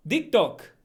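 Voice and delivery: Italian accent. Shown as a demonstration. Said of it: "replace the T with the D".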